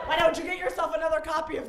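hammed-up British reproach; theatrical British grown child; British accent. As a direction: blame mother in a put-on British accent. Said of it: "I don't know why he's British".

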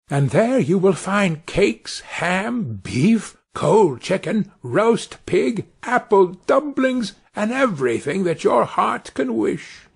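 put-on high, slow, coaxing little boy; tiny Tom Thumb voice. A narrator's reading. Tom calls out to the wolf inside, high and coaxing. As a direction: sweet-talk the wolf in a small high voice.

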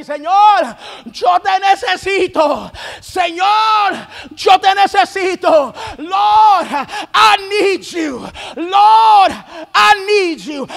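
loud pleading with a cry in the voice; imitated wailing prayer, shouted and tearful; imitating a crying prayer. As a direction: cry out to the Lord like the sister did. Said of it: "Sister started crying. She started wailing".

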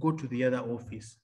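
soft, low hushed instruction; hushed, whisper-like quote; imitated whisper. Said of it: "he whispers and says".

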